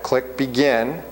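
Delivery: "Click begin." said slowly, word by word, rising at the end; slow it right down so they can follow each click; slow, deliberate. Shown as a demonstration. Teacher walking the class through the exam steps, slowly. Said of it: "Notice we haven't started the test yet".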